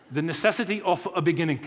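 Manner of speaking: lightly put-on German accent; a hint of a German professor's accent. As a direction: repeat it as Einstein, in a German accent. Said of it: "that's my German accent".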